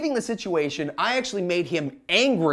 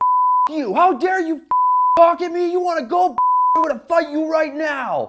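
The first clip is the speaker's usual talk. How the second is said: mock furious, shrill, very high raging scream; 9 semitones higher, 5 dB louder than usual. Retelling a yield-sign argument, the speaker imitates the other man's angry screaming. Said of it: "He starts screaming even louder".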